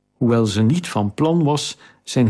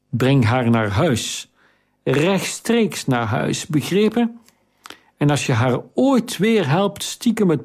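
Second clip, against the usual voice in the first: stern warning; 4 semitones higher than usual. Acted. Stern master scolds the boy.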